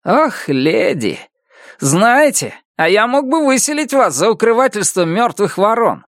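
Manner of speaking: condescend to her, lady; sneering neighbor. A narrator's reading. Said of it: "заговорил он". (снисходительная угроза)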